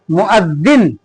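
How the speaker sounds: मुअज्जिन said slowly and clearly, doubled ज्ज; correct pronunciation. Shown as a demonstration. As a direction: read मुअज्जिन carefully, stressing the ज्ज. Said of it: "सही pronunciation मुअज्जिन". (मुअज्जिन साफ़ और धीरे, ज्ज पर ज़ोर)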